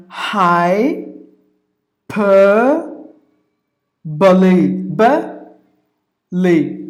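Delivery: "hyperbole" broken into hai, per, buh, lee; long pauses between the syllables of "hyperbole". Shown as a demonstration. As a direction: spell out "hyperbole" by sound, each part held. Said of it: "There are four syllables".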